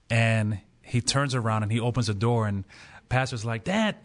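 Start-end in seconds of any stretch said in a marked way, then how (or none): 3.6-4.0 high-pitched put-on pastor voice; pastor impression. Pastor opening a door at the barbecue, put-on voice. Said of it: "I don't know why that voice comes out".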